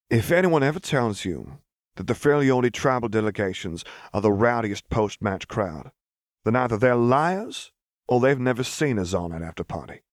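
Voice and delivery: wry barkeep warning a newcomer; bartender voice. Acted. Bartender's rowdy crowd warning.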